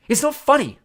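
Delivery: loud, high, fierce protest. A narrator's reading. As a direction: protest hotly at being laughed at. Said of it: "said Ron fiercely".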